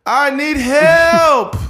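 high yelling plea, slowing on help; mock desperate shout. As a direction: cry out to the street for help. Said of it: "Probably be like".

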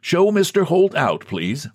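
a touch of gentle politeness; gently bidding. A narrator's reading. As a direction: bid it gently, easing off on the last word. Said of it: "gently bidding her".

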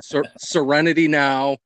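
slow, drawn-out "serenity now" outburst in Frank Costanza's manner; lightly imitating Frank Costanza forcing himself to calm down. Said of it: "channeling my inner Frank Costanza".

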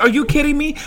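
high, incredulous question; floored by the coincidence; disbelief. Retold or imitated. Asking the lady in amazement.

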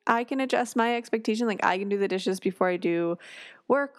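a touch of gentle, accommodating husband; imitating her husband. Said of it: "and he was like".

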